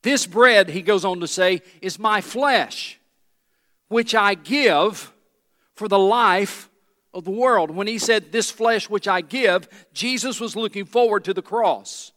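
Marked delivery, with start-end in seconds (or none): 0.0-9.7 loud and drawn out word by word; slow emphatic proclamation. Acted. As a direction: hammer each phrase home. Climactic reading of Jesus' words.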